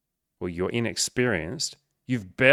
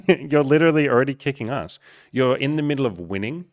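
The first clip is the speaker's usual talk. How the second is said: laughing encouragement; 5 semitones higher, 4 dB louder than usual. Real, not acted.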